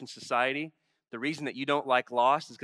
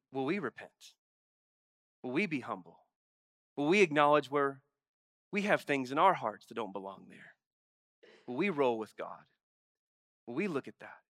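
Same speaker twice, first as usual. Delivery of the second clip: sincere appeal. Real, not acted. Closing appeal to congregation.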